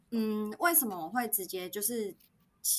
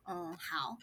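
softer, with a catch of crying; agreeing to ride with her ex, close to tears; tearful; 2 semitones lower, 5 dB quieter than usual. Retold or imitated. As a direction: choke out a small agreement. Retold reply while upset.

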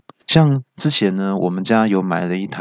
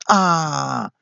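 higher, drawn-out "ah"; mock cry of pain; 6 semitones higher than usual. Friend caught in closing elevator doors, mock cry of pain. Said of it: "所以叫出声".

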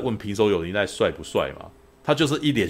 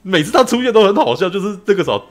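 high and loud, still laughing; bubbling with amusement; telling a friend what cracks her up, amused; amused excitement; 11 semitones higher, 9 dB louder than usual. Real, not acted. Amused, recalling the funny scenes.

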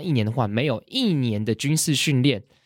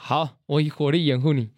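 drill reply; 2 semitones higher than usual. Shown as a demonstration. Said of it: "我们可以来一小段就好。".

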